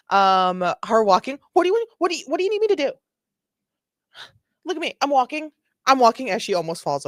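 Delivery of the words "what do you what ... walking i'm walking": high-pitched, insistent drunk imitation; exaggerated tipsy whine, pitched high; mock drunk woman. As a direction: mimic an indignant drunk protesting. Acts out the drunk driver.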